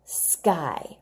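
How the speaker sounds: breathy whisper of sky; whispered word. Shown as a demonstration. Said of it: "think of a one-syllable word".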